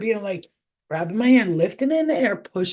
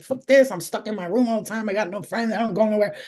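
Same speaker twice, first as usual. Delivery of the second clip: complaining. Retold or imitated. Medium retelling morning gripes to the universe, mild complaining. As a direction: re-enact a grumble about being stuck. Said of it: "I complain, like".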